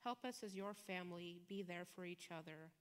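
prayer. Acted. Pastor leading the congregation in closing prayer, hushed and earnest. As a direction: pray it gently over the congregation.

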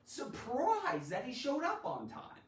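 high, stretched surprised exclamation; emphatic surprise. Shown as a demonstration. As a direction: lean on "Surprised" in amazement. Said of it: "it adds emphasis to that emotion".

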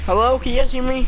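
loud, high call into mic. Real, not acted. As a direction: raise the voice, calling out. Mic check, nobody answers.

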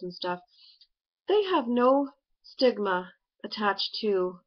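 face covered by sheet mask; talking with hands on masked face; through a sheet mask. Real, not acted. Seen 1: Sheet mask covers face throughout, mouth opening visible, hands pressing it.

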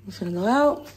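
lost voice, hoarse and soft. Real, not acted. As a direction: speak through a voice that's gone. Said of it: "my voice is gone".

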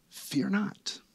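angel's words. Retold or imitated. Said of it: "the first thing the angel Gabriel says".

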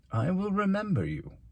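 high, deliberate, unhurried warning; veiled threat. Acted. Mayor marking the outspoken boy, veiled threat. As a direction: deliver it as a pointed promise, pitched high.

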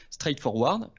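"straightforward" said the English way, with an English r; English-accented "straightforward" dropped into French talk. Real, not acted. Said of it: "désolé pour mon accent, euh, mon accent anglais".

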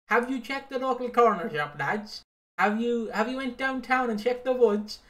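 high, loud nosy helper; mocking busybody voice. Podcast host mocks Facebook searchers in a high voice. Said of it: "They're like".

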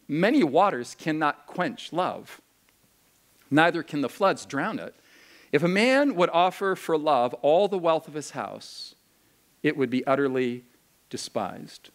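solemn recitation; scripture reading. Acted. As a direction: read the poem with reverence.

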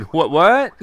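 high, loud, squeaky repeat; high squeaky what. Retold or imitated. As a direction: squeak it out like a cartoon critter. Mimics villager's squeaky "what what.

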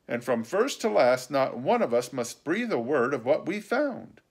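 earnest caution against loose talk; stern warning. A narrator's reading. Warning speech in character.

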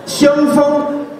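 香风 pitched high and held level; high, sustained 香风; breath from up top. Shown as a demonstration. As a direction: send 香风 out from high up. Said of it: "用气都在上面".

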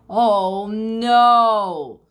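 loud, high, drawn-out exclamation; dismayed cry. Acted. Kids land on Mum's bed.

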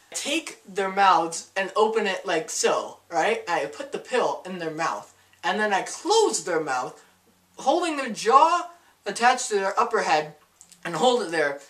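walk through it like a patient demonstration; demonstrating aunt. Retold or imitated. Aunt showing Taylor how she pills her dogs, lightly acted instructive voice. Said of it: "She's like".

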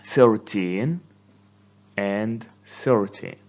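thirTEEN rising, THIRty falling; stress contrast. Shown as a demonstration. Teacher contrasts the pair for students. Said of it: "It sounds differently".

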